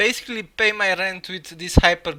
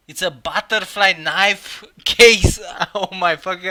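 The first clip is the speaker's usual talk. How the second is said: stunned; 9 dB louder than usual. Real, not acted. Stunned by knife case drop.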